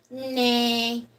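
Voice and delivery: horse neigh. Shown as a demonstration. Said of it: "What's the horse say?".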